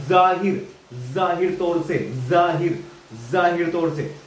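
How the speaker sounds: जाहिर begun on a buzzing z; careful z at the start of जाहिर; demonstrated z sound. Shown as a demonstration. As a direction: pronounce जाहिर as "zaahir". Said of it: "ऐसे करते हैं".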